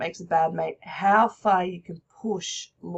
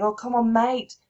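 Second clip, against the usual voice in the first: persuading mate; 2 semitones higher, 7 dB louder than usual. Acted. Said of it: "So he's saying".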